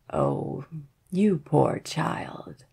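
put-on slow, hushed old woman; a lightly voiced old crone, slow.

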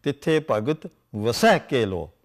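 "vasai man mahe" very slow, low; slow scripture recitation. Shown as a demonstration. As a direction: read the verse slowly and low. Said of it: "You see".

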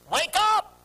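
high, sudden call; abrupt commanding cry; sudden wake-up shout. Retold or imitated. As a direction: startle a sleeper awake. God's voice calling a sleeper.

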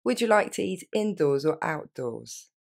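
slow, careful polite question; courteous waiter asking where to sit. Shown as a demonstration. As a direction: ask it gently, word by word. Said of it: "un petit peu plus polie".

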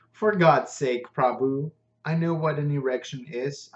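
exasperated, get on with it; grumbling. Acted. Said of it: "I grumbled".

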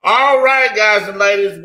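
high, loud pumped-up announcer call; hyped-up opener. Real, not acted. Host rallying the call audience with a loud, high-energy opener. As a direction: fire up the crowd.

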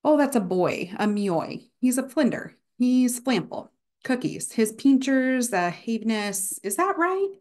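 halting, searching voice with a questioning rise at the end; aphasic patient speaking. Acted. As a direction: play a patient with aphasia making up words. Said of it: "So the example here".

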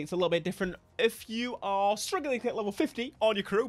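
normal talking voice

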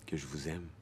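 soft, hushed confession; intimate, subdued confession; quiet declaration of love. Acted. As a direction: say it low and softly. Tearful declaration of love in monologue.

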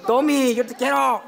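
fuller-voiced, open declaration of affection; insistent declaration. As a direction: call it out so Tommy hears. Repeats declaration louder to Tommy.

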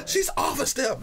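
high-pitched coach yelling; imitating a cussing coach; angry coach. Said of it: "I'm like".

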